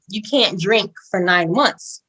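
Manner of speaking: slow, drawn-out retold news; imitating her delivery. Friend breaks the pregnancy news sideways, slow imitation. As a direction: deliver it slowly, word by word. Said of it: "That's how she told me".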